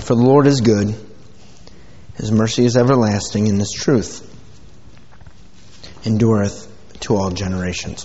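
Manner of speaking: measured reading of the psalm; scripture reading. Acted. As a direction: read the verses with reverence. Reads scripture aloud.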